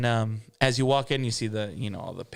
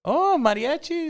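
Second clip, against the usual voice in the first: much higher, bright lady voice for the boss; Boss Lady's voice. Retold or imitated. Boss Lady greeting Fred and the new singer, in a much higher lady voice. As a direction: play the gracious lady boss greeting the room.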